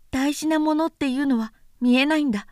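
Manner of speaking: little prince voice. Acted. Prince voice, higher than narration.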